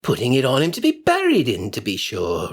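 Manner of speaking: lightly voiced coarse charwoman, dismissive; a hint of a scornful old woman. Charwoman mocks the burial.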